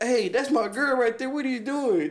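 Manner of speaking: put-on high, pushy challenge from the short boyfriend; angry boyfriend quote. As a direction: confront him like the jealous boyfriend. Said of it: "he's like".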